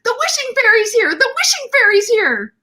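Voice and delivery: put-on high, bright calling of little girls; little girls calling out on arrival, high and excited. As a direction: squeal it like a child spotting her favourite. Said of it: "run up and go".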